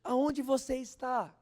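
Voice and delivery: loud, high, slow cry to God; man alone in his room crying out loudly to God; desperate cry. Retold or imitated. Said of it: "começou a gritar desesperadamente".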